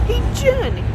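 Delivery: high, loud mock Boston accent; hammed-up Bears-style Boston accent; Bostonian accent. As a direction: call out as a loud Boston guy. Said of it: "a, the Bears accent".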